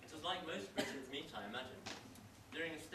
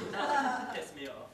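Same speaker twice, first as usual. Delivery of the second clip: louder, slow deliberate annoyance; annoyed; 7 semitones higher, 10 dB louder, slower than usual. Acted. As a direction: spell out your displeasure slowly. Boss annoyed at employee.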